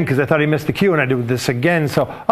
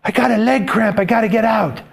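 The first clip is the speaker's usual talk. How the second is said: imitating girl assistant; 7 semitones higher than usual. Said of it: "she's like".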